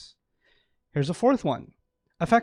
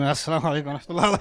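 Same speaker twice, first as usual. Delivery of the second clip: stern general greeting. Retold or imitated.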